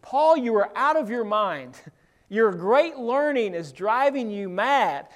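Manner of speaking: a light hint of Festus snapping at Paul; understated retold exclamation; loud rebuke. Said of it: "He says in a loud voice".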